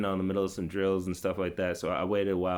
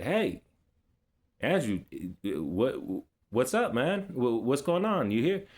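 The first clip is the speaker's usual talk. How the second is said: coach calling out; 3 semitones higher than usual. Retold or imitated. Coach spots the brother at the gym, lightly acted calling out. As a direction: imitate a coach's questioning call.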